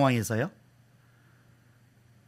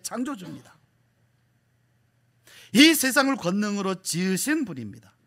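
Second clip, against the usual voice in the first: emphatic preaching; 5 semitones higher than usual. Real, not acted. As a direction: proclaim it with certainty to the congregation. Preaches with force.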